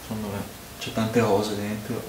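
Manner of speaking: muffled by glass rim; talking while sniffing drink; speaking into a glass. Real, not acted. Seen 0: Left man talks with goblet rim at nose and mouth.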